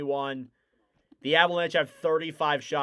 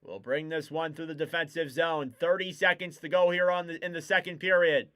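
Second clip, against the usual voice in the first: brisk hockey call, level and steady; live hockey commentary; play-by-play. Acted. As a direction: keep the play moving like a broadcaster.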